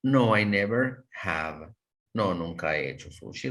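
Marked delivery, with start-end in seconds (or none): 0.0-1.7 slow model answer. Shown as a demonstration. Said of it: "Vean, podemos decir".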